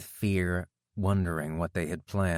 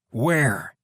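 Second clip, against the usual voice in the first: demanding; 4 semitones higher, 6 dB louder than usual. A narrator's reading. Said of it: "Kenny demanded".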